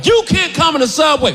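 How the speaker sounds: high, barked ban; mock guard blocking the door; stern guard. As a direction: lay down the law. Guard banning him.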